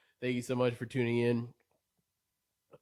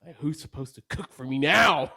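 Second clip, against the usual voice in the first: louder, playfully aggrieved question; mock indignant complaint; 2 semitones higher, 6 dB louder than usual. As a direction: demand an answer like a put-out son. Mock complaint about absent mom.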